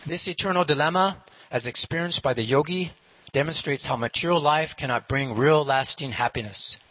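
formal recited narration, slightly lifted pitch; measured, declamatory closing commentary; narrator's moral. Acted. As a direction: deliver the moral like a storybook narrator. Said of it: "And then the narrator says".

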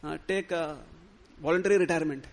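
loud, cutting guru's rebuke; angry dismissal. Acted. Guru cursing his disciple, shouting him away. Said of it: "cursed him and said".

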